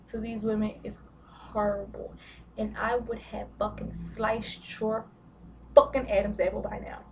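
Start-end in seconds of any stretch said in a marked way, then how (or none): 2.6-7.0 hard street talk. Real, not acted. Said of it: "And I don't even speak like this".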